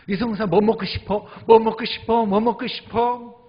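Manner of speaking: high, loud, repeated eager offers; excited friends calling with dinner offers; eager callers. Retold or imitated.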